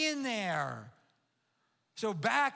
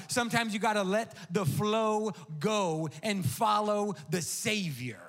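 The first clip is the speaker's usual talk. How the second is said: louder, rising preacher's call; preaching; 3 dB louder than usual. Real, not acted. Pastor urging the congregation to rise up, preaching loudly. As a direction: build the appeal to the congregation.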